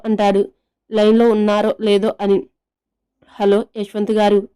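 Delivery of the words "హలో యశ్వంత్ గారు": plain reading voice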